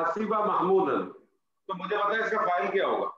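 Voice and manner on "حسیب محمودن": slow example sentence. Shown as a demonstration. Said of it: "میں آپ سے کہتا ہوں".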